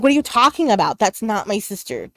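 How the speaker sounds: urgent, disbelieving protest; retold freak-out. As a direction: imitate a young girl freaking out. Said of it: "I'm freaking out".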